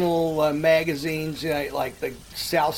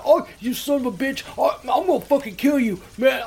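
mock furious; 7 semitones higher than usual. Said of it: "this guy's getting mad".

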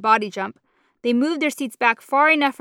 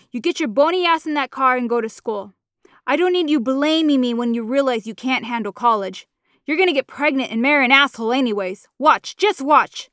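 furious mother; 2 semitones higher, 3 dB louder than usual. Acted. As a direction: spit it at her, then drag out the warning. Mama shoving daughter out.

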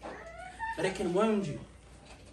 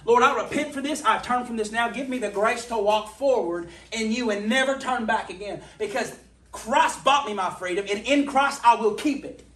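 loud, high, rebuking Satan; fierce rebuke of Satan, louder and higher; defiant declaration; 3 semitones higher, 7 dB louder than usual. Retold or imitated. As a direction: shout down the enemy with resolve. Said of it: "I'm just like".

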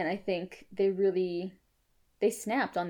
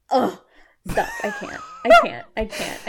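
fangirl squeal; 6 dB louder than usual. Real, not acted. Overwhelmed by love for voice.

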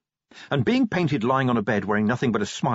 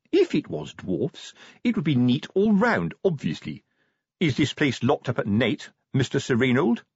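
lightly voiced patronising sergeant, higher pitched; self-important sergeant; 5 semitones higher than usual. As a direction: put the corporal in his place, mildly. Sergeant rebukes corporal, questions curator.

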